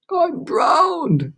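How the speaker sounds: high gasping cry; gasped. A narrator's reading. Grasshopper soaked by the deluge, gasping cry. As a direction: splutter it out soaked. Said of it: "gasped the old green grasshopper".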